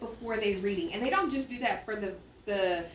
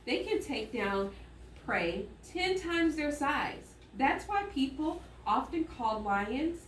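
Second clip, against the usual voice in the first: reading aloud. Shown as a demonstration. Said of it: "watch me as I read".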